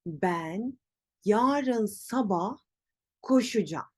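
koşacağım as ko-shu-jam, phrase in chunks; spoken contraction. Shown as a demonstration. Teacher repeats slowly, koşacağım as koşucam. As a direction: pause between chunks, end on koşucam for koşacağım. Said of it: "Nasıl telaffuz edeceğim?".

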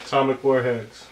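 normal talking voice

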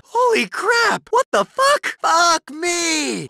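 a shocked bystander shouting curses; shocked yelling. Acted. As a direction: yell it like you can't believe your eyes. Bystander sees shocking violence.

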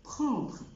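"prendre" with a nasal en and a throat r; nasal vowel, throaty r; French prendre. Shown as a demonstration. Teacher modelling the verb prendre. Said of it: "زي فيرب prendre".

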